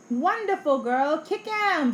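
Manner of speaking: eager high shout in play. A narrator's reading. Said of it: "shouts Wonderful".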